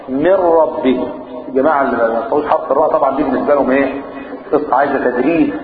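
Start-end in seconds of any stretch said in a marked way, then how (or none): 0.1-1.1 من ربه drawn out with one light tap on ra; slow recitation. Shown as a demonstration. Teacher modelling من ربه for the class. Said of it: "تكرار واحد".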